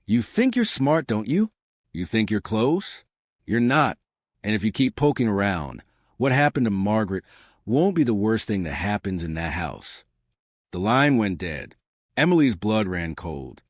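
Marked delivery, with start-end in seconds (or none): 0.0-10.0 low and mocking. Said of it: "low and mocking".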